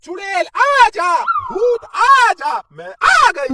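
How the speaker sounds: spooky, slow witch tale; mother keeps playing witch for her son; pretend witch. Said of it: "क्या acting करती हो".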